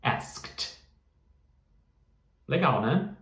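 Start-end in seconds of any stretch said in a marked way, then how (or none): 0.0-0.8 "asked" breathed out with no voice at all; unvoiced asked. Shown as a demonstration. Teacher demonstrating the voiceless ending, whispered. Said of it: "E no particípio".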